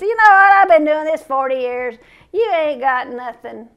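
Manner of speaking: put-on loud, bossy put-down from an older brother; hammed-up scolding elder. Eliab belittles younger David, in a loud bossy put-down. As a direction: talk down to him like a veteran.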